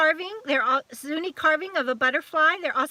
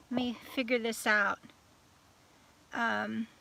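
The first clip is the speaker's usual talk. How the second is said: whisper; 4 semitones lower, 8 dB quieter than usual. Real, not acted. Muttering to herself while searching.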